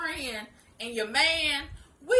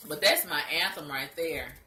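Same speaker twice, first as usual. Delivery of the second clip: snotty crying; 4 semitones lower than usual. Real, not acted. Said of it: "My nose is running".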